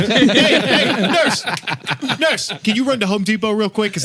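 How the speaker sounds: put-on German-accented surgeon calling the nurse; hammed-up German doctor, starting high. Botching surgeon sends nurse to Home Depot, German accent. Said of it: "I don't know why I'm doing that accent".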